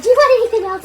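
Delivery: giggling through the drive-thru question; laughing. Retold or imitated. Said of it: "And she's laughing".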